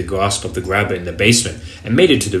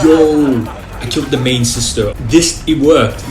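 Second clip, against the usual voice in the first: excited; 3 semitones higher, 3 dB louder than usual. Real, not acted. Beating the boss sister.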